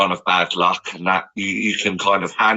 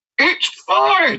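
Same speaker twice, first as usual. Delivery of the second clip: very high, forced cheer through clenched, gritted teeth. Showing how they keep smiling while struggling to hang on: through gritted teeth. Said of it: "speak through gritted teeth".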